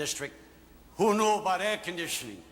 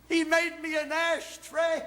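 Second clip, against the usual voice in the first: laughing shout; 9 semitones higher, slower than usual. Acted. Father shouts to audience about son's gift, laughing. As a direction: shout the punchline through a laugh.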